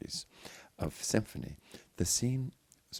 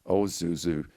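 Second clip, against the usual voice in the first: affectionate; 5 dB louder than usual. Acted. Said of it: "not unaffectionately".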